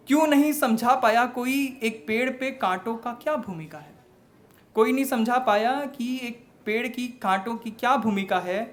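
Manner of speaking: declaimed verse with emphatic line openings; stage poem recitation; poetry recital. Acted. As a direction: recite to an audience, punching the openings and easing off at line ends.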